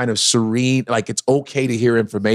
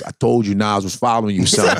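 low troll voice; 4 semitones lower than usual. Retold or imitated. Troll vindicated.

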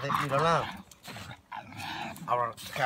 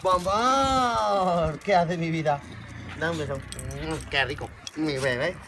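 high, loud gushing over the dog; excited pet greeting; 4 semitones higher, 5 dB louder, slower than usual. Real, not acted. Man greeting his dog with high, loud doting baby talk.

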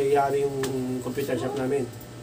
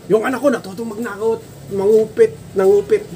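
accusing parent; 2 semitones higher, 4 dB louder than usual. Retold or imitated.

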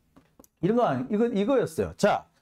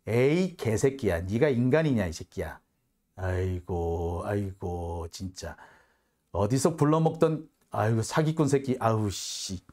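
disgusted muttering; 9 semitones lower than usual. Real, not acted. Disgusted cursing at the minister.

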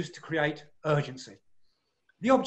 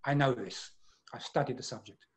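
conclusive; 4 semitones lower, 6 dB quieter than usual. Shown as a demonstration. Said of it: "my voice is saying".

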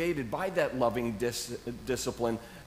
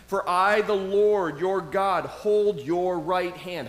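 first reading, loud and slow; proclaimed loudly; 3 semitones higher, 5 dB louder, slower than usual. Shown as a demonstration. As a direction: ring it out as God's promise. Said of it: "Just pause on that one for a second".

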